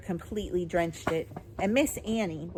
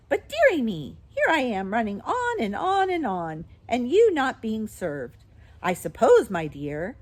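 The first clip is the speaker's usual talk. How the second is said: put-on higher, louder, chattering old woman; fussing old shopkeeper; 5 semitones higher, 7 dB louder than usual. A narrator's reading. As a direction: fuss over keeping customers waiting. Voices Miss Corey.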